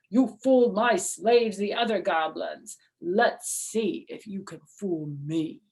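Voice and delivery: loud, looming monster threat; menacing goblin king. Acted. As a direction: promise doom from far away.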